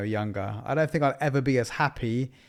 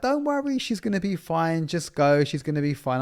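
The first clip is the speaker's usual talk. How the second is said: nursery staff reassuring; 5 semitones higher than usual. Retold or imitated. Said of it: "it's all these, like, ladies".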